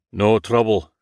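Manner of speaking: put-on gruff Scottish accent. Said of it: "in a Scottish accent".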